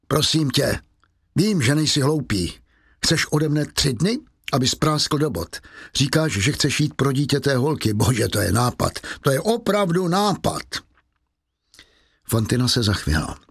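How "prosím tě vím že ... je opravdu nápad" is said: mocking scorn. Javert mocking Valjean.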